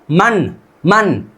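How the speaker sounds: मन repeated very slowly and clearly; slow pronunciation drill. Shown as a demonstration. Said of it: "अब क्या करना है?". (मन मन बहुत धीरे धीरे दोहराएँ)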